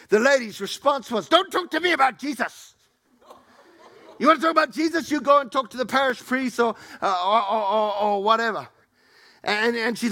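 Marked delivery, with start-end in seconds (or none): 1.3-8.7 high, loud dismissive retort; mock haughty church lady snapping back; curt church lady. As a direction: brush them off, pitched up and sharp. Lady's retort retold.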